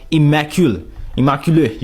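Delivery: immaculate as French-style ee-ma-kew-luh; French accent. Shown as a demonstration. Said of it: "How you say immaculate in French?".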